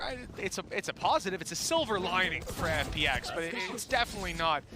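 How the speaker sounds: live play-by-play commentary; esports caster. Acted. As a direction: call the round as it unfolds.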